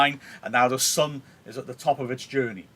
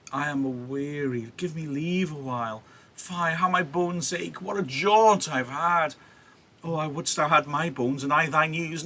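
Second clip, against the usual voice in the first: milk the aches to tease Juliet; put-on weariness; 4 semitones higher than usual. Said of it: "nurse is playing her up now".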